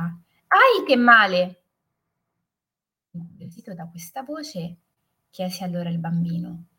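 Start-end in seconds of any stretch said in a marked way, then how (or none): 0.0-1.6 high, loud echo of a cry of pain; echoed shout. A narrator's reading. Mountain voice repeats the boy's cry, echoed shout. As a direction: call it back like a mountain echo. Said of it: "una voce che dalla montagna ripeteva".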